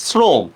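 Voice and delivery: শ্রম starting on a hissed s, not sh; dental s. Shown as a demonstration. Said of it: "উচ্চারণ করতেছি কিন্তু আমি দন্ত স্বর মতো".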